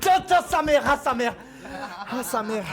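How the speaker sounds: loud, high cry at the shock; pained outburst. Real, not acted. Streamer tased by the viewer, loud pained cry. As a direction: yelp as the current hits.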